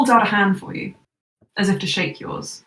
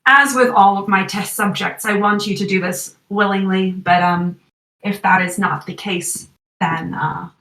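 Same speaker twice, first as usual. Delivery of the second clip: Elijah voice. Acted. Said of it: "he just sighs and he just says".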